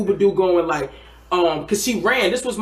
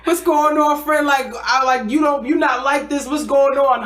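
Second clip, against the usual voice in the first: high worried friend; 8 semitones higher, 3 dB louder than usual. Retold or imitated. Homegirl asking her scared friend what's wrong, high and worried. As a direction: ask like a concerned, rattled friend. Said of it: "She's like".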